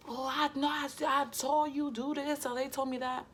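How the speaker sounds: mock flustered excuse. Mocking how a caught person stammers excuses. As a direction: fake a panicky backpedal.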